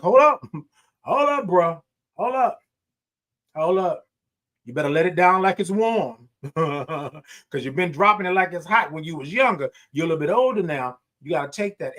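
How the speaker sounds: mock-scold yourself getting out of bed; talking to my aching body. Speaker's body scolding him as he gets up, hammed up.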